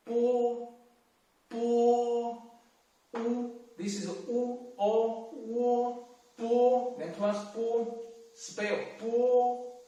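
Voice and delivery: first tone on bo. Shown as a demonstration. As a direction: spell bo out flat and even. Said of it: "take the first tone as demonstration".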